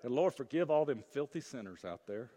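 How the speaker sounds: a touch of self-righteous scorn for sinners; lightly mock the pious who judge others; smug mock prayer. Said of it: "we don't say".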